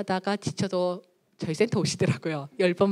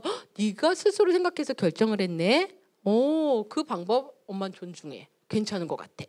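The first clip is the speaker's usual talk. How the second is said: respectful mother. Acted. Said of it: "이렇게 얘기를 해주다".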